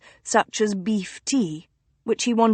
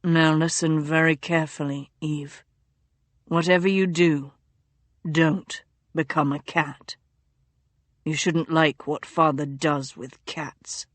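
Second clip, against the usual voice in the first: low, urgent hushed warning to a sister; delirious duke warning his sister, low and hushed; feverish duke; 5 semitones lower than usual. A narrator's reading. Feverish duke's voice.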